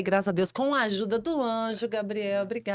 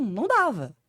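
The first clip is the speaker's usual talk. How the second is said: ordinary delivery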